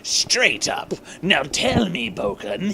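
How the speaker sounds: a hint of a purring villain; lightly purred villain lines. Eggman purring to his henchman Boken, a touch of villain. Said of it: "he purred like a tasty villain".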